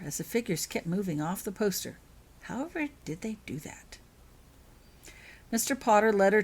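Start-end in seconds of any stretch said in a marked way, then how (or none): 2.4-4.0 hushed, breathless whisper of wonder. A narrator's reading. Holly marvels at the moving poster figures, whispered.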